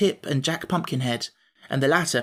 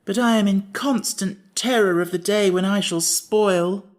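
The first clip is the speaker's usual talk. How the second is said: slow, higher, fearful Pumpkinhead; sighing worry; 5 semitones higher, 4 dB louder than usual. Acted. Pumpkinhead confessing his fear of spoiling, slow and sighing. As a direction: dread spoiling. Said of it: "with a sigh".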